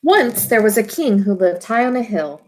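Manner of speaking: put-on storybook voice for young listeners; reading to children. A narrator's reading. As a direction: read it gently to a class of kids. Teacher reads picture book aloud.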